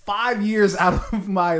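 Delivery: loud, high, slow indignant imitation; hammed-up outrage, drawn out through laughter; mock angry rant. As the director defending years of work, mock fury.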